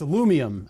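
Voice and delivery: "alumium" as a-LOO-mee-um; older form "alumium", four syllables; original form. Shown as a demonstration. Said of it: "is the original one".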